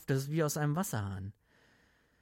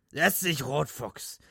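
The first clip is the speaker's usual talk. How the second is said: put-on drunk insistence; 3 semitones higher, 3 dB louder, slower than usual. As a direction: order him down drunkenly. Drunk Gatlin pushes Red down.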